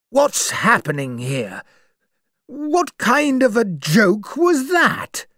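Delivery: a hint of an old general's tremble, rising high; old soldier shaken by the accusation; shaky voice. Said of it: "in a shaky voice".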